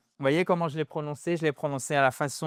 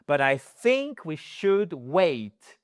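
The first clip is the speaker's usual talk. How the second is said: slow polite refusal; much slower than usual. Shown as a demonstration. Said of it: "comment refuser poliment".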